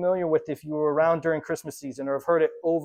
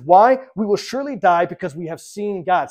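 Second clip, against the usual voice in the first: panicked cry, the first word loud; retelling a man's terrified outburst; freaking out; 4 dB louder than usual. Retold or imitated. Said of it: "starts freaking out".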